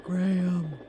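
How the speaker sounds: hushed conspiratorial whisper; giggly prank whisper. Acted. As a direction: whisper so he can't hear. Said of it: "Why are you whispering into the mic".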